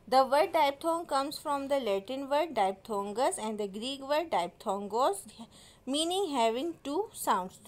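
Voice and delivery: very slow, deliberate definition reading; slow dictation. Shown as a demonstration. Teacher dictating the definition to students slowly. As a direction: read it out like dictation to a class.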